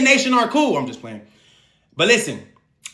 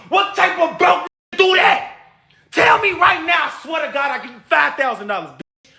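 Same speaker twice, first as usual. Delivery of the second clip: angry shout; 5 semitones higher than usual. Real, not acted. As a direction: dare them angrily. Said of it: "'cause I'm so mad right now".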